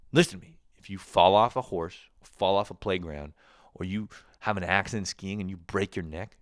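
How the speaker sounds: loud, stern warning voice; mock stern mom. Mother warning her young son about breaking his neck, loud and stern. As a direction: drill the danger into the kid.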